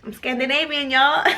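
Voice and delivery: giggling mock-proud announcement; laughing boast. Real, not acted. Telling viewers she's Scandinavian, laughing at the idea.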